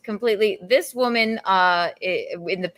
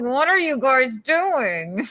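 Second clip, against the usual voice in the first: higher, drawn-out question; mock disbelief; 5 semitones higher, much slower than usual. Co-host voices Anna's reaction, slow baffled question. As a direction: stretch it out in baffled imitation.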